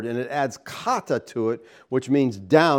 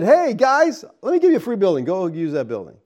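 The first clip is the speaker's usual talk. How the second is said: mock generous donor; 5 semitones higher than usual. Mock generous benefactor quote.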